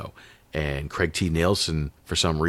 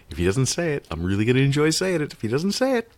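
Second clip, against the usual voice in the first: inner voice quote; 10 semitones higher than usual. Retold or imitated. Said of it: "I was like".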